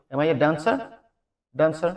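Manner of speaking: DANCER as British "daan-sa"; British pronunciation. Shown as a demonstration. Teacher models British English, DANCER as "daan-sa". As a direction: say DANCER with a broad a and no r. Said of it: "British হবে".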